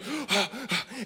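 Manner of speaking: soft repeated intakes of breath; preparatory gasp. Acted. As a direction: gulp air, gathering up for a roar. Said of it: "gathers himself to roar again".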